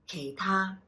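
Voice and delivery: Kei low, ta high; tone demo. Shown as a demonstration. Teacher modelling the tones of kei ta, deliberate. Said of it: "down low for the K, up high for ta".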